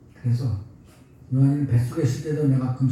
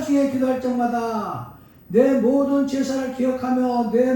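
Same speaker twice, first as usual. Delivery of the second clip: fervent preaching; 7 semitones higher, 3 dB louder than usual. Acted. Pastor proclaims scripture to the congregation, loud and fervent.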